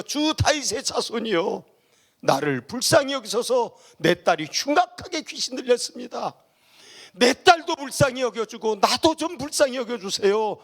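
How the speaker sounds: high-pitched pleading outcry, acted out; crying out. Desperate mother begging Jesus for her daughter, acted high-pitched outcry. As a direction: call out imploringly, without extra volume. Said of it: "소리를 지르지요".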